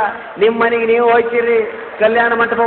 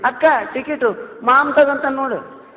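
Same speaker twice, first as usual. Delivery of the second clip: bus conductor; 4 semitones higher than usual. Retold or imitated. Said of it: "ಸಂಬೋಧನೆ ಹೇಗಿದೆ ನೋಡಿ".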